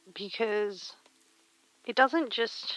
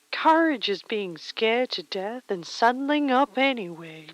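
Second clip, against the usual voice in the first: louder, proud cowboy motto; cowboy accent; 5 dB louder than usual. Pretend. Streamer quoting a cowboy saying to Caldus in a mock cowboy accent. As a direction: declaim it like a cowboy on his horse. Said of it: "the cowboy accent just comes to you".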